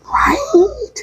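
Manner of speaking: high, cracking voice on the edge of tears; choking up. Real, not acted. Moved by the story she just told, voice cracks. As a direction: let the voice break as tears come. Choked up after moving story.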